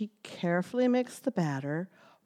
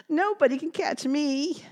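proud boast; 8 semitones higher than usual. Acted. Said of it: "he said".

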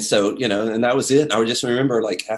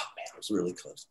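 quiet disappointment; 4 semitones lower, 13 dB quieter, faster than usual. Retold or imitated. Disappointed after missing Paul.

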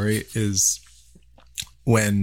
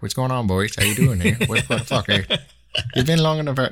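put-on lightly done Lanark County accent, rising higher at the end; 4 semitones higher than usual. Mimicking Rob greeting the boat lads, light Lanark County accent. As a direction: slip into a rural Lanark County Ontario twang. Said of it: "Your Lanark County Perth accent just came out".

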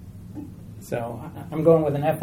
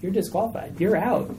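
hushed accusing whisper; 5 dB quieter than usual. Retold or imitated. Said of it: "Satan's whispering in his ear going".

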